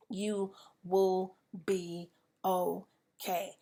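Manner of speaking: slow, deliberate comfort; reassuring. Real, not acted. Speaker assuring grieving listeners, slow reassuring. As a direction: hold each word to steady them.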